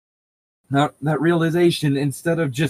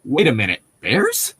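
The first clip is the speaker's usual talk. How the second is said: mock realization. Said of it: "Or, like".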